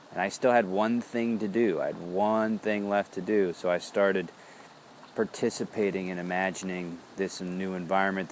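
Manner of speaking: normal talking voice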